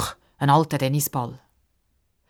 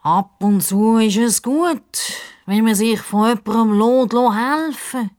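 self-important; 4 semitones higher than usual. Acted. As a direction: sound grandly wise. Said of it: "sagt das Krokodil wichtig".

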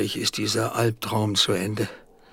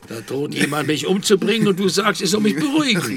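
indignant; 5 semitones higher, 5 dB louder, faster than usual. Acted. Indignant at being told calm down.

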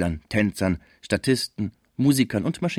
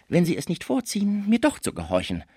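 much higher-pitched menacing voice; threatening Frisier; 9 semitones higher than usual. A narrator's reading. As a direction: threaten in a high, thin register. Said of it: "Man trennte sich unter Drohungen". (drohend, mit hoher Stimme)

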